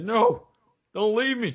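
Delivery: put-on very high, drawn-out whimpering, sobbing cry. Retelling a story, the speaker acts out a man begging someone not to leave, imitating someone crying. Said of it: "the Infinity Ward dude's crying".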